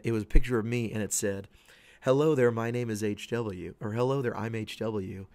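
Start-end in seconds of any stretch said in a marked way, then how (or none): 2.0-5.3 meme voice. Retold or imitated. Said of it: "read this in my voice".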